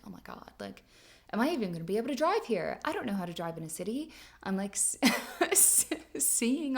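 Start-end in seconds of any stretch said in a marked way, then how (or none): 0.0-4.1 panicked rush. Retold or imitated. Panicking while driving into Denver.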